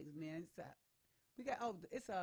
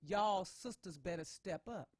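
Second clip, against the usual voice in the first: quoting the caption; 6 dB louder, slower than usual. Retold or imitated. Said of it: "the young man's caption on his post was".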